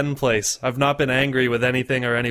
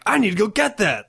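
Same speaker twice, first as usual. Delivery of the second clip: raised, eager exclamation; mock eagerness; 7 semitones higher than usual. Voicing how a new game should grab him, eager. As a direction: lift the pitch as if keen to buy.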